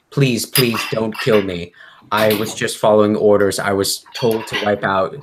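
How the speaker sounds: acted begging, a touch of panic; pleading prisoner. Gagged prisoner begs for his life.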